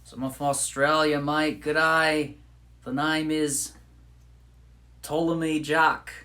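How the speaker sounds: hammed-up Aussie introduction; Australian accent. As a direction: play a cartoon Australian introducing himself. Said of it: "I love Australian accents".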